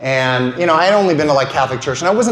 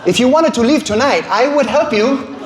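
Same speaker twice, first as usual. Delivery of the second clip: a hint of a scared sweet father confiding; mock-timid dad, rising to a high cry at the end; nice dad; 5 semitones higher than usual. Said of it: "lean into me and be like".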